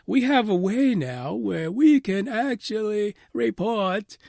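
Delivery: mocking official statement. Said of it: "them basically saying".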